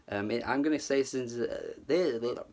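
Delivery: stumbling over words; tripping over the words; stuttering. Real, not acted. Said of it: "I'm stuttering, I'm flubbing my words".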